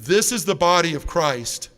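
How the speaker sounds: slow, loud liturgical proclamation; solemn priest. Retold or imitated. Priest gives communion to a trembling man, solemn proclamation. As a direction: proclaim it like a priest at the altar, drawn out.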